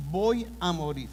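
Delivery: "Voy" said firmly with a falling tune, a touch of fear; fearful. Retold or imitated. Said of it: "que Él ahora teme".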